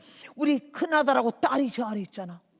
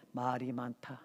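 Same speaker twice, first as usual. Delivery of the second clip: Lord's rebuke; 9 semitones lower, 9 dB quieter, slower than usual. Retold or imitated. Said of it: "그 뜻이 전광석화와 같이 내게".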